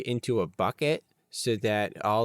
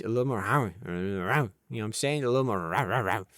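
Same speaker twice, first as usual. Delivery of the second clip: a lightly growled Rottweiler voice, the words half lost in a snarl; Rottweiler impression. Vlogger shows viewers his Rottweiler impression, a light growl. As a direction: growl it out like a dog that wants more bite. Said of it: "that's my impression of a Rottweiler".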